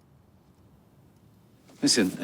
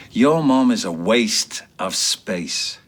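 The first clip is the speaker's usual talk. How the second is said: escalating rant; 5 semitones higher, 6 dB louder than usual. Acted. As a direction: spit it out, losing your temper. Phelan explodes at Faye.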